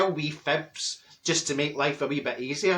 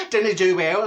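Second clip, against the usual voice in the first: Bruce Forsyth impression; 4 dB louder than usual. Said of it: "he says".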